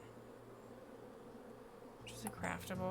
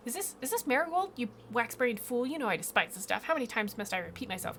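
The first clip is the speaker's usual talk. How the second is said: higher, louder contemptuous rebuke; scornful queen scolding; 4 semitones higher, 4 dB louder than usual. Acted. Queen bee scolds the beekeeper for bringing marigolds. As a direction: tear into the fool.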